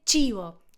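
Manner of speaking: "chivo" as CHEE-bo; Italian pronunciation. Shown as a demonstration. Teacher translating food, "chivo" with Italian ch. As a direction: say "chivo" with a ch sound. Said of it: "Comida se dice".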